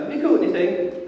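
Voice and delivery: called out. Retold or imitated. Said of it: "he yells out".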